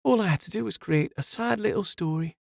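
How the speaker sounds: lightly voiced condescending villainess; dripping condescension. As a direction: talk down to him sweetly. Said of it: "voice dripped with condescension".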